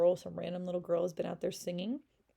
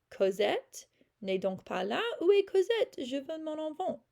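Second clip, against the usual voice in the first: high, loud anguished cry; yelling; 8 semitones higher, 4 dB louder than usual. A narrator's reading. Dying mother screams for her daughter, high anguished yell. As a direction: scream for her lost child. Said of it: "And she yells".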